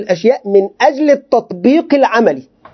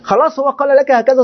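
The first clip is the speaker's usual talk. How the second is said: laughing; 6 semitones higher than usual. Real, not acted. Laughs mid-point about quitting coach.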